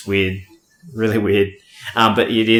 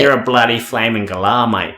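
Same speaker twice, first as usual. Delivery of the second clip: Aussie accent; 4 dB louder than usual. Shown as a demonstration. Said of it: "say it in the whole Aussie accent".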